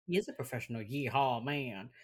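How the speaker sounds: drawled Texas twang; Texas accent. Acted. Echoing co-host's cowboy line, Texas accent. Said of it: "in your Texas accent".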